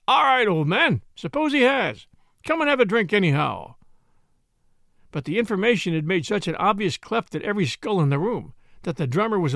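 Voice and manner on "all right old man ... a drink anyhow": breezy, joking reassurance; easy and jolly, brushing it off; jocular. Acted. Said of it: "innocent and jocular".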